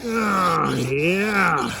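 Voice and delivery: slow, voice breaking with emotion; choked-up plea to keep trying. Real, not acted. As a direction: hold back tears on the advice. Voice breaks after emotional advice.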